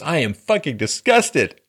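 high, loud hysterical mock rant; mocking Kathy Griffin. Mocking a celebrity's tweet to viewers, high and shrill. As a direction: shriek it like an outraged celebrity. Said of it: "She said".

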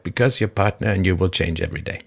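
lightly imitated old Frenchman's accent; bad French accent. Old French guy explaining his marriage advice, bad French accent. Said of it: "He had a bad French accent, that old guy".

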